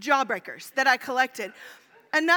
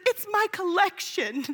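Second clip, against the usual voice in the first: put-on earnest little kid; 5 semitones higher, slower than usual. Son defends his wrappers.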